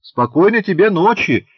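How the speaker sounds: put-on a little girl calling loudly from behind the curtain. A narrator's reading. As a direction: shout it out across the room. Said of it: "крикнула Шурка из-за полога".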